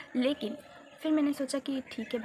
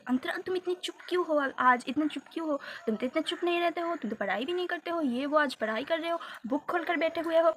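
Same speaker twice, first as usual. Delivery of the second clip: teasing teacher; 4 semitones higher than usual. Retold or imitated. Teacher teasing quiet student.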